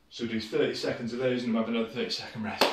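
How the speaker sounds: out of breath. Real, not acted. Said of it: "I'm getting out of breath".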